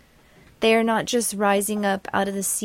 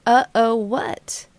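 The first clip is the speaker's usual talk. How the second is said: questioning retort; 3 dB louder, slower than usual. Acted. Narrator questions the childlike voice back.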